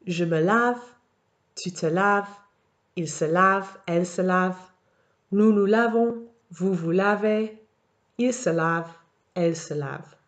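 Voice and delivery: clear, even model reading of each form; French conjugation read-out. Shown as a demonstration. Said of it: "here's another example".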